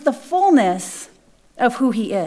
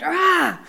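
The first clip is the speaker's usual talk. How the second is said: a short mock snorting roar; animal snort; 4 semitones higher than usual. Preacher imitates Jesus' angry snort, mock roar. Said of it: "almost like an animal snorting".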